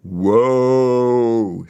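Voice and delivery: long, loud mournful woe; hammed-up tree lament; mock wail. A narrator's reading. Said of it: "said the trees".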